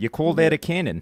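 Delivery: New Zealand accent. Mock-taunting about a ship's cannon: new zealand accent. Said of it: "you're sounding more New Zealander now".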